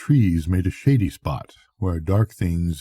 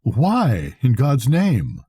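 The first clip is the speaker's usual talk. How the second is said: shocked cry; 5 semitones higher, slower than usual. Acted. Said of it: "I cried".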